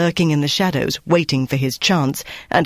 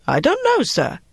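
very high, worried answer; worried young cook; 12 semitones higher than usual. A narrator's reading. Cook answering the interrogating officer, worried. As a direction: plead ignorance in a high voice. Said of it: "A worried-looking young cook said".

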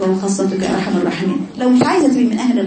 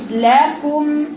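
usual speaking voice

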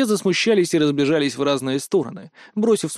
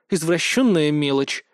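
plain reading voice

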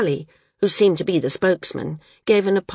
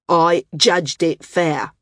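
slow, louder, controlled anger; angry; 5 dB louder, much slower than usual. Acted. The landsman defends his vote, slow and angry. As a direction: spell out each word, holding back fury. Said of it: "the landsman said angrily".

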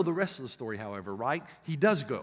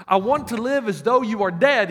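loud, cold demand to the father; defiant son; 4 semitones higher, 7 dB louder than usual. Acted. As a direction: throw it at his father. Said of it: "the son came and said to the father".

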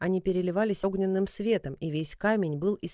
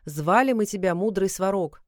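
shouting; 5 dB louder than usual. Acted. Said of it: "громко закричал".

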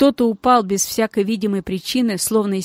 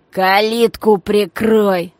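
slow, loud angry bark; louder barked command; 6 dB louder, much slower than usual. Acted. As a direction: bark the order at him. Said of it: "зло пролаял Мас".

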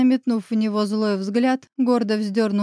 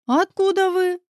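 much higher, stunned question; startled gasp; 10 semitones higher, 3 dB louder than usual. A narrator's reading. Woman stunned by mention of Roman, gasping in surprise. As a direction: catch your breath in surprise. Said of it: "задохнулась от неожиданности Елена".

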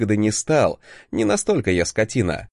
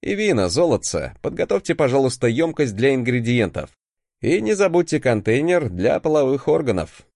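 strict teacher; 2 semitones higher than usual. Acted. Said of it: "играем с тобой в строгого преподавателя".

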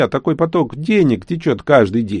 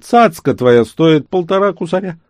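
trader voice; 8 semitones higher, 5 dB louder than usual. Acted. Haggling trader Nazar speaks.

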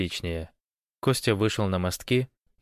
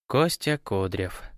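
slow, sad mumbling of his own name; sad mumble; slower than usual. Acted. The gypsy mumbles his real name sadly. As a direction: mutter the name slowly and ruefully. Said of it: "пробормотал цыган печально".

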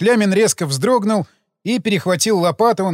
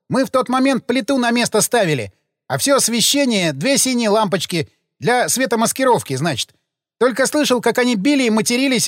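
a gravedigger voiced higher, aggrieved and defensive; sullen gravedigger; 5 semitones higher than usual. Gravedigger protesting his innocence to detectives, aggrieved. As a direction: play the put-upon worker justifying himself.

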